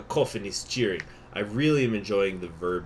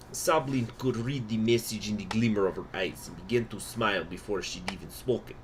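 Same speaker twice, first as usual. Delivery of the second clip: put-on Russian accent. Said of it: "it's time to go into my Russian accent".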